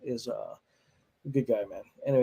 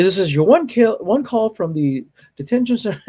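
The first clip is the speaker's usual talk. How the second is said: mock phone call; 7 semitones higher, 5 dB louder than usual.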